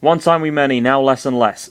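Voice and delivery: half-hearted West Country creature voice; West Country attempt. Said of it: "that's totally Welsh. Whatever".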